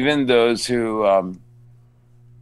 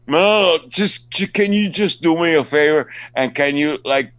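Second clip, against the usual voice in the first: higher, lightly acted wheedling; pleading fan; 5 semitones higher than usual. Fan asking the actor a favor, mildly pleading imitation. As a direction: beg a favor like an eager fan.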